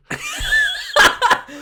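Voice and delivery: high shrieking burst of laughter. Real, not acted.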